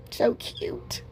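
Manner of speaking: softly whispered "so cute"; hushed admiring whisper over the craft. Real, not acted. Admiring finished piece.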